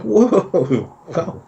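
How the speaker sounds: high, laughing whoa whoa at herself; mock alarm at her own panic, half laughing; laughing self-alarm. Speaker catching her own panic at the checkout, laughing whoa.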